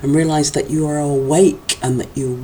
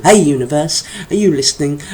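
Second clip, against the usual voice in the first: calling out; 3 semitones higher, 4 dB louder, faster than usual. Acted. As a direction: call out as if hailing someone far off. Acted call to the universe.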